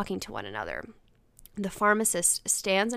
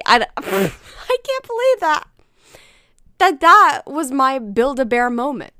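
laughing; 6 semitones higher, 11 dB louder than usual. Real, not acted. Laughing at own toy moment.

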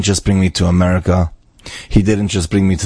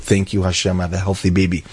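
a softer, hushed, sincere thank you; heartfelt thanks; 4 dB quieter than usual. Retold or imitated. Father at the Kosel thanking God for his baby, hushed and heartfelt. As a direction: murmur it like a grateful father at the Wall. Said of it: "he was crying his eyes out".

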